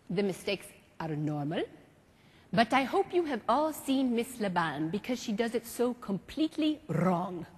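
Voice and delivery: put-on lightly French-accented teacher; a hint of a stately French maestro; French mime master. Marceau calls students up in class, lightly French.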